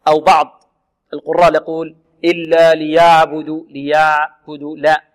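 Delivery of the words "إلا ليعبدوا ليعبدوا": ليعبدوا with the ayn drawn out loosely; over-slack ayn. Shown as a demonstration. Teacher imitating some reciters' mistake, slack lingering ayn. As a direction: let the ayn of ليعبدوا run on too long. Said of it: "ليست رخوة وليست شديدة".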